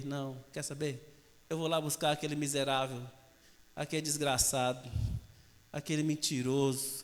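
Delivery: low, soft grumbled resolve; merciful relenting. Acted. God goes to fetch the wretch, merciful relenting. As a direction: think it over quietly, voice dropped.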